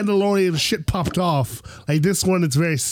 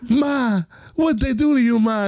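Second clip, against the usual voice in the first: distressed son; 5 semitones higher than usual. Retold or imitated. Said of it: "he's like".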